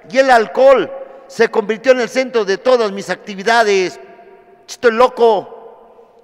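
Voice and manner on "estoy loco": loud declaration. Real, not acted. Shouted declaration at the meeting.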